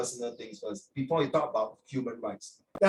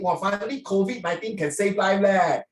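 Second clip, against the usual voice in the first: mock-amazed sarcastic cheer, louder; 4 semitones higher, 4 dB louder than usual. Uncle imitating sarcastic netizens about the drug case, mocking cheer. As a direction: imitate online commenters jeering with fake delight. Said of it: "then people very sarcastic".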